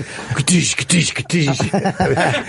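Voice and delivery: mouth-made crashing noises in a steady beat; slow, rhythmic hissed "ktish" sounds; pop-and-lock sound effects. Shown as a demonstration. Comic sidekick voicing his own dance moves, rhythmic noises. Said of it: "That was Chip pop walking".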